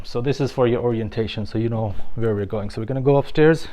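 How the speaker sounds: breathing heavily through a mask; audible breaths behind the words; heavy breathing. Real, not acted. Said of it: "sorry for the heavy breathing, I have this mask on".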